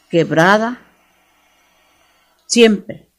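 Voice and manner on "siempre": siempre thrown out loud and high; emphatic loud siempre. Acted. Preacher to the congregation, siempre called out loud.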